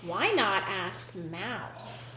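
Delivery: low, slow kindly duck. A narrator's reading. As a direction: offer it kindly and unhurriedly. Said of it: "One duck offered kindly".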